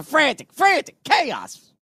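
frantic high. Acted. Describing frantic search.

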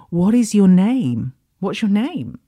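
a startled man calling out to an invisible voice, urgent and loud; urgent demand. Retold or imitated. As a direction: insist on an answer, a little shaken.

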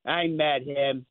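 slow, grudging mock scowl; retold scowl. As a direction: imitate a scowling man, dragging the words out. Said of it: "looks at me and scowls".

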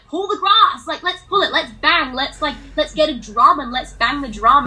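put-on high, bright coaxing to a toddler; encouraging child. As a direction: cheer the child on to let it out. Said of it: "I'm like".

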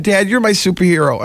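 high, weepy retelling; high-pitched, hammed-up choked-up voice; mock tearful quote. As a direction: quote the child as if overcome with tears. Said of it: "I cried".

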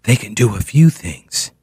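low creaky mock radio voice; vocal fry. Host mocking a radio correspondent, in vocal fry. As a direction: let the line sink into a low vocal fry. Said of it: "uh, vocal fry".

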